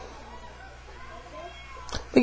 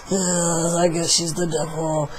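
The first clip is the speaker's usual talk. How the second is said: talking all funny; 6 dB quieter than usual. Retold or imitated. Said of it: "she starts talking all funny like this".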